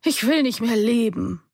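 a mother's despairing call; mother crying out. A narrator's reading. Mother slumps at the table and cries out, despairing.

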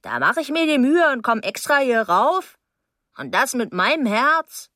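put-on scolding older neighbour. Mrs Deering scolds the young man, indignant and high.

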